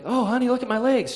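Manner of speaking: high, loud excited imitation of grandma; amazed grandma. Grandma showing grandchild her moving legs, excited imitation.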